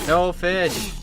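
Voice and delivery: loud, high shout of no fish. Pretend. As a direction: bark it out like a guard. Repeats the guard shout.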